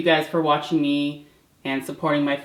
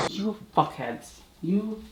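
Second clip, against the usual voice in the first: muttered curse; 3 semitones higher, 9 dB quieter than usual. Real, not acted. Cursing cats under breath.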